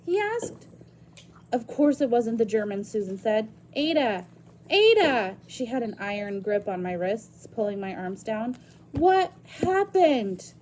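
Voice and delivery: reading a novel aloud to the class; story narration. Acted. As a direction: tell the story to students. Reads novel chapter aloud to class.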